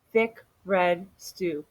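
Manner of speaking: slow, relishing answer; savoring. Acted. Amu proudly naming her stew, slow and savoring. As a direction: draw out each word lovingly.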